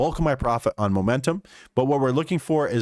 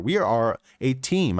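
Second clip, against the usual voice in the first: "We are a team" said slowly, each word weighted; slow down and drive home "We are a team."; emphatic stress; slower than usual. Real, not acted. Trader rallying the chat, "We are a team." slow and emphatic. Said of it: "I can't stress that enough".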